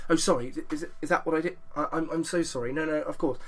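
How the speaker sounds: soft, apologetic English gent, a touch flustered; posh English persona. Retold or imitated. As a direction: play the disarming Englishman dodging a fine. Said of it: "I go really English, and I'm called Lloyd Irving".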